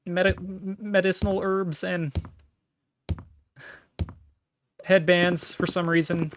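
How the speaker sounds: daydreaming cartoon girl; high dreamy falsetto; airheaded falsetto. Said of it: "Rebecca's head".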